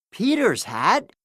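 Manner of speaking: a touch of excitement; excited cry. Acted. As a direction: point and cry out. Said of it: "cries Jake".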